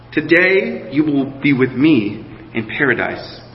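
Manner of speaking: measured Bible reading to the congregation; preacher reading scripture to the church. Acted. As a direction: read the passage with care and weight. Reads Luke's crucifixion passage aloud.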